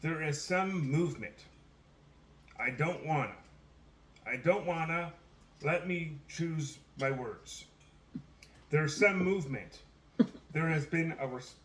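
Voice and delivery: halting quote with long pauses, lightly acted; Joe Biden. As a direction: raise the voice slightly, stopping and restarting as if searching for words. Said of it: "I'm quoting Joe Biden here".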